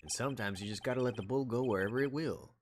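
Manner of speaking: lightly voiced Texas lawman; a touch of folksy cowboy storytelling. Marshall sharing old ranch wisdom, cowboy. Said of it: "I love doing the cowboy voice".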